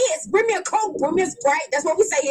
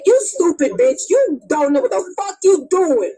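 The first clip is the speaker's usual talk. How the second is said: mock road rage; 3 semitones lower, 5 dB louder than usual. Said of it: "road rage".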